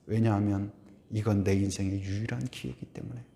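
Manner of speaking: ordinary talk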